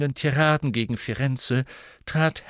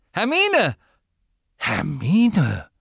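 loud call across a crowd; 7 semitones higher, 6 dB louder, much slower than usual. Acted. Harry spotting Hermine in the crowd, calling out. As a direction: call her name out loudly.

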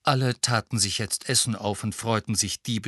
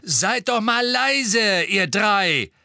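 louder, higher call to hush them; hushing scold; 10 semitones higher, 6 dB louder, much slower than usual. Acted. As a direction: shush the noisy kids, slowly and firmly. Mother hushing the chanting twins.

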